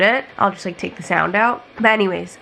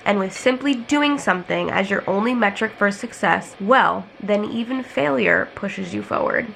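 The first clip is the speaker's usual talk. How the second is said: talking around a retainer; wearing a retainer. Real, not acted. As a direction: retainer in mouth. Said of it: "I have my retainer in".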